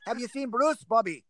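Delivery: West Midlands attempt, breaking into laughter; West Midlands accent. Shown as a demonstration. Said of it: "Give us a bit of the West Midlands accent".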